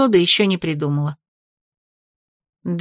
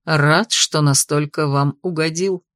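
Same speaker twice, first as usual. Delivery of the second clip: low, slow, smirking remark; 4 semitones lower, slower than usual. Acted. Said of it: "усмехнулся Картиан".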